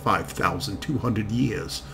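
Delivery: put-on slow, savoring German accent, every vowel tasted; a dragon's envoy in slow, relishing German accent. German envoy briefs the committee in slow German accent. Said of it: "speaks slowly with deep, melodious German accent".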